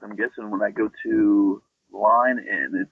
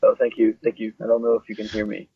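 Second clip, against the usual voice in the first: tunnel sound; 3 dB louder than usual. Real, not acted. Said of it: "Sounds like you're in a tunnel".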